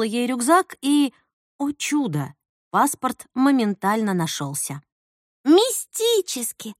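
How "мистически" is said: mystical. Retold or imitated. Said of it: "сказала бы Светлана Дольчикова".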